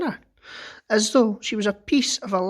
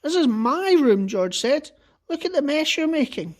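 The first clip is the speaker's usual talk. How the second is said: protesting; 6 semitones higher, 3 dB louder than usual. Acted. George protesting mess.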